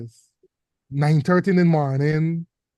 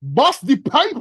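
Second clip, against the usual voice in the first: mock panic shout; 9 semitones higher, 3 dB louder than usual.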